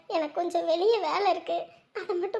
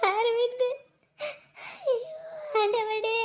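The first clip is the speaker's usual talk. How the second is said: tearful calling; 2 semitones higher, slower than usual. Acted. Weeping mother calls son, God.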